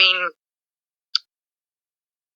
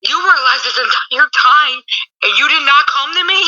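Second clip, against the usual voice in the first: mock angry; 5 semitones higher than usual. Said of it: "she's still mad to see her".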